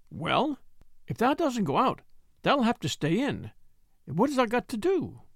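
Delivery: hint of a cheerful Yorkshire lass; Yorkshire maid Martha. A narrator's reading. Martha questions Mary.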